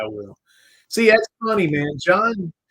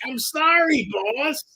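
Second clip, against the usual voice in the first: mock sheepish apology; 12 semitones higher, much slower than usual. Mock apology to demanding John.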